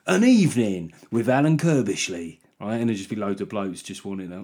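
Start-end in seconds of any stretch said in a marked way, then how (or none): 0.1-2.4 lightly hammed-up event billing; event announcer. Billing an old footballer's after-dinner show, mock announcer. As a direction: announce the guest with a little push. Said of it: "It'll be like".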